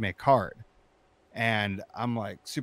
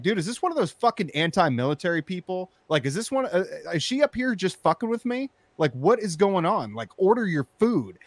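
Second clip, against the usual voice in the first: higher, louder furious rant; angry ranting; 9 semitones higher, 7 dB louder than usual. Retold or imitated. Yelling in his car at the woman ahead, furious. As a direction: vent at the driver, fuming and loud. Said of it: "I'm getting more and more pissed off".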